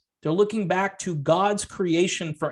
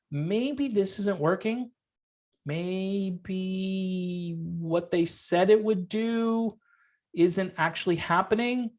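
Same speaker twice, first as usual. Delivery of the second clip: put-on innocent kid; 4 dB quieter, slower than usual. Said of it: "a kid would probably make this little observation".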